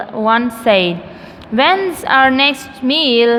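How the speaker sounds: measured, careful classroom poem reading; teacher reciting a poem evenly for students; poem read aloud. Shown as a demonstration. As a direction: read the verse out word by word.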